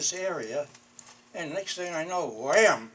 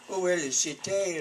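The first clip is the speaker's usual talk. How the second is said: best French; 5 semitones higher than usual. Retold or imitated. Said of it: "In my best French".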